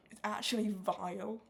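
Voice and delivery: posh drawn-out vile; plummy voice. Shown as a demonstration. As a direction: say it like a toff. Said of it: "That's how posh".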